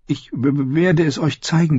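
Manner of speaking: high, stammering Sam; nervous stutter. Acted. Sam promises to show the gate, stuttering. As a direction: trip over the w, then push on. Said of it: "stotterte Sam".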